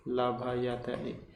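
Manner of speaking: लभयते drawn out very slowly, each syllable apart. Shown as a demonstration. Teacher breaking लभयते into syllables for students, very slow. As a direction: spell out लभयते for the class, la-bha-ya-te. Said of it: "लभ्यते, then spelled slowly".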